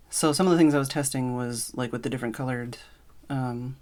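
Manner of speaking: breathless from running the stairs; winded, catching breath between words. Real, not acted. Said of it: "sorry, I need to breathe".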